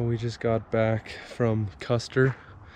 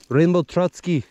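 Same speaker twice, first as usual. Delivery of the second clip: louder, higher playful call; playful excited naming; 8 semitones higher, 7 dB louder than usual. Real, not acted. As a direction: announce the fish like a proud nickname. Playful naming of caught fish.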